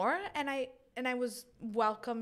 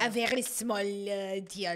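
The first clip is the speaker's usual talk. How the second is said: bad, poor French accent; 3 semitones lower than usual. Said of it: "like a French accent, but I'm not good at it at all".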